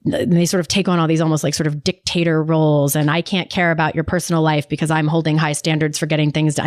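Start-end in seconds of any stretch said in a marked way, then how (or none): 3.1-6.6 flat mechanical robot voice. Retold or imitated. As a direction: stiff monotone robot delivery. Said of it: "my robot voice now".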